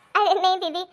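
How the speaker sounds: denial through a stifled giggle; amused, half-suppressed laugh in the voice; trying not to laugh. Acted. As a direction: brush it off while holding back laughter. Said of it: "आपको तो बड़ी हंसी आ रही है".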